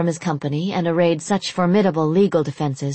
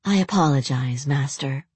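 cool; 2 semitones lower than usual. Acted. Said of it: "Lorelei said coolly".

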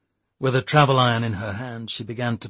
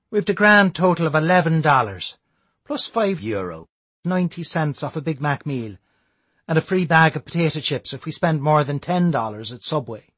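Declan voice; 5 semitones higher, 5 dB louder than usual. A narrator's reading. Declan's voice in audiobook.

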